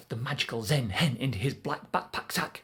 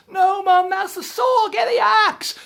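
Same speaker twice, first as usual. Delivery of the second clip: high, loud desperate yell; high urgent shout; frantic shout; 11 dB louder than usual. Acted. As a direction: shout down at Mum. Jack frantic at wrong tool.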